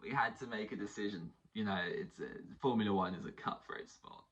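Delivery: lightly imitated team boss interview; Christian Horner. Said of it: "it's gonna be Christian Horner sitting there".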